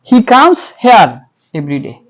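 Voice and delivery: He comes here, each word drawn out slowly; dictating slowly to a class; slow model sentence. Shown as a demonstration. Teacher dictates the model sentence to students, very slow. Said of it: "এটাই হবে কি সঠিক উচ্চারণ".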